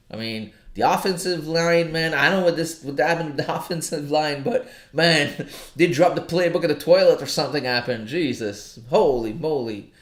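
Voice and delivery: loud, high-pitched rant about the game; worked up. Real, not acted. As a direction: get fired up, ranting about the football loss. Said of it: "I'm getting emotional right now".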